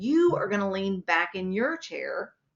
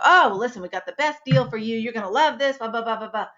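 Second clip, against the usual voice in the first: higher, quick, eager salesman patter; pushy sales pitch; 4 semitones higher, 4 dB louder, faster than usual. Shown as a demonstration. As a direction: steamroll them with enthusiasm. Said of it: "There's no connection there".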